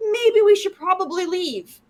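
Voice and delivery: understated, unbothered suggestion; mock calm. Player mimics the woman calmly suggesting they leave, mock calm. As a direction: imitate someone oddly composed after danger. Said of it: "she calmly comes out".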